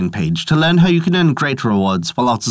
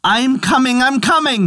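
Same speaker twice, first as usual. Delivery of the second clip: high-pitched eager call, barely louder; loud exclamation; 12 semitones higher than usual. A narrator's reading. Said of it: "exclaiming in a loud voice".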